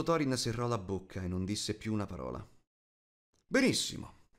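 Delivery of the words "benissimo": high, sudden exclamation from an annoyed king; exasperated king's outburst; curt royal anger. A narrator's reading. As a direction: burst out high, cutting off the questioning. Angry king gives up questioning Thorin.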